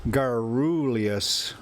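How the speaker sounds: garrulous drawn out slowly, rolled r; slow deliberate garrulous; careful correction. Shown as a demonstration. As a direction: say garrulous slowly, GAR-ru-lous. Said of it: "but it's".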